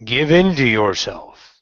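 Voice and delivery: slow, measured meditation voice with spaced phrases; guided meditation. Acted. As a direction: guide them inward, pausing after each phrase.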